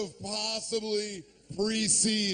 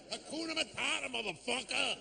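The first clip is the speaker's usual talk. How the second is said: higher and softer, smug mock voice; guy on the street; 5 semitones higher, 5 dB quieter than usual. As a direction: drop it as the smug final word. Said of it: "Nah, man".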